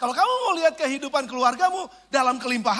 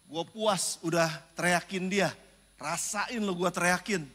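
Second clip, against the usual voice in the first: slow, lower, smug self-satisfied gloat; 7 semitones lower, 4 dB quieter, slower than usual. Retold or imitated. Pastor quoting his smug self after yelling, slow gloating. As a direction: savor the revenge slowly. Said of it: "Ketika saya bilang".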